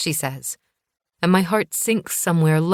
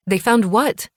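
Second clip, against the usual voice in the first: higher, louder urgent question; alarmed question; 5 semitones higher, 4 dB louder, slower than usual. Acted. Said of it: "I ask".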